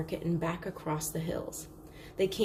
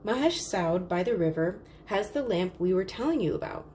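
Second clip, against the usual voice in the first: calling out. Acted. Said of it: "she called out".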